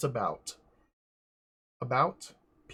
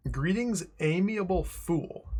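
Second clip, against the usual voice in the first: mock pompous greeting; 6 semitones higher than usual. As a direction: greet him like a haughty noble. Reading a dialogue option aloud.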